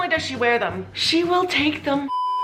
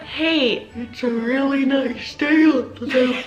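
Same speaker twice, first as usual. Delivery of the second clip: mock yawning speech. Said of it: "So you'll be like".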